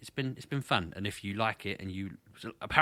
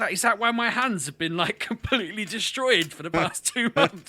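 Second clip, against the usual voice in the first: retold disbelief; 11 semitones higher, 6 dB louder than usual. Retold own shocked reply.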